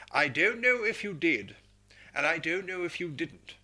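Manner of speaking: a hint of a stern lady officer; lightly voiced commanding officer; quoted letter. Colonel quotes his officer's letter, lightly voiced. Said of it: "It said".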